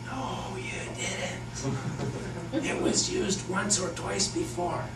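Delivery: mock rebuttal. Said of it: "And I'm like".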